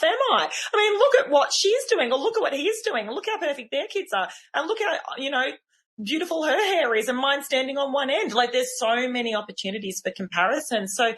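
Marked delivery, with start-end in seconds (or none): 0.0-8.3 higher, whiny comparing; mild mock envy of perfect people; self-doubting inner voice. Mum scrolling Instagram comparing herself, mock whiny and higher.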